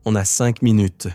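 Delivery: loud, rising pleas through the door; shouting. Acted. Voice at the door begging them to open, shouting. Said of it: "criait la voix".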